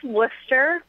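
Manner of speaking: "Worcester" said WUS-ter, two syllables, slow; "Worcester" pronounced the local way, WUS-ter; local pronunciation. Shown as a demonstration. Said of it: "it's pronounced".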